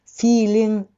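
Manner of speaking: "feeling" ending in a Japanese "ん". Shown as a demonstration. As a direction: close "feeling" like the end of "hon". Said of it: "日本語のんを使ってください。". (「feeling」の語尾を日本語の「ん」で)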